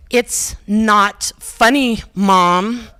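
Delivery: slow, dragged-out "It's not funny"; daughter's drawn-out complaint. Retold or imitated. Imitating her daughter, slow and unimpressed. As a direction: stretch it like a bored teen. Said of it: "she kinda says it like that".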